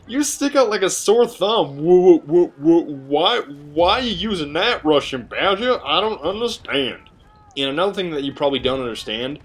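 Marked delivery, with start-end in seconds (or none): 1.8-7.1 higher, whiny mock-baffled viewer voice; mock confused viewer. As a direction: stammer like a baffled fan mocking your choice.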